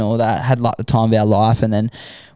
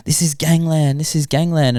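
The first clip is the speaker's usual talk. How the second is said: higher-pitched, urgent retold plea; insistent warning; 5 semitones higher than usual. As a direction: imitate a guard pressing the danger home. Guard insists on the danger.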